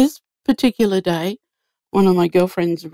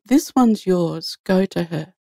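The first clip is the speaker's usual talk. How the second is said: slow, firm and certain command; a calm inner voice giving a firm order; slower than usual. Retold or imitated. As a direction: lay it down slowly, no room to argue. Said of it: "this really firm voice said to me".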